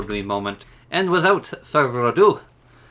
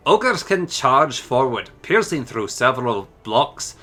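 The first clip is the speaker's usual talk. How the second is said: a hint of a Scottish burr through the ogre notes; light Scottish accent. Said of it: "my Scottish accent isn't quite the same".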